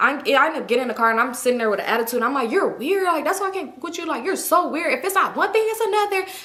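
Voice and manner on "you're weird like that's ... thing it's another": high, furious put-on screaming rant. Retelling an argument with him in the car: retelling her own screaming. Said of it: "I'm screaming to the top of my lungs".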